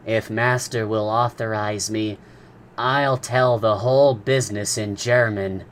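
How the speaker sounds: lightly voiced deferential servant; a hint of a dutiful manservant; polite servant voice. A narrator's reading. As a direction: offer it humbly, a little set apart from the narrator. Conseil offers politely.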